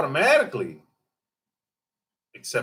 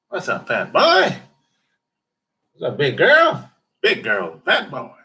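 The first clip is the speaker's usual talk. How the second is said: teasing call; 4 semitones higher, 5 dB louder than usual. Acted. Calling out to passersby.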